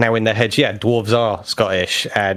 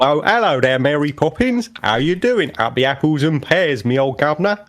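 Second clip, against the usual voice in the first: hammed-up Dick Van Dyke Cockney accent; a cheerful, overdone fake Cockney; mock Cockney; 4 semitones higher than usual. Teasing co-host with a mock Dick Van Dyke Cockney. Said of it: "a good Dick Van Dyking".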